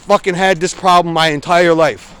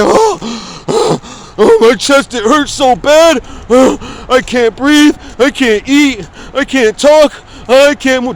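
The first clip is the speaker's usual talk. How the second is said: melodramatic complaining; 5 semitones higher, much slower than usual. Retold or imitated. Mocking complainers for viewers, hammed-up pained wailing. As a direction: ham up a dying man. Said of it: "Complaining is like".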